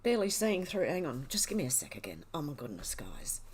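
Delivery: tearful, fading to very soft; overcome, voice breaking into tears; real crying. Real, not acted. Streamer moved to tears by her chat, crying softly. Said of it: "I can't stop them coming out".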